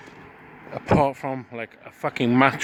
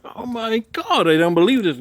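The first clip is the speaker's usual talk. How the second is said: retold emotional disbelief; 8 semitones higher than usual. Friend recognising an old mate after years, imitated high disbelief. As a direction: imitate an overwhelmed friend, pitched up and slowed at first.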